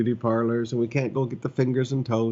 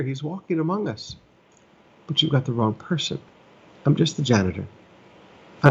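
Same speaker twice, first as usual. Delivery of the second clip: emphatic preaching; 3 semitones higher, 4 dB louder than usual. Retold or imitated. And I tell them.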